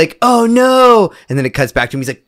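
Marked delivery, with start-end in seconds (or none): 0.2-1.1 high, drawn-out mock cry of dismay; hammed-up wail; slow-mo victim cry. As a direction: stretch it out like slow motion. Acts out slow-mo shot victim.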